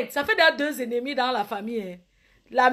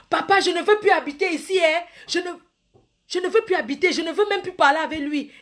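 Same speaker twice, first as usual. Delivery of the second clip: higher, louder whiny plea to papa; whining younger brother; 5 semitones higher, 3 dB louder than usual. Acted. Younger brother whining to papa on the phone, high plaintive voice. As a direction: complain to father like a sulking kid.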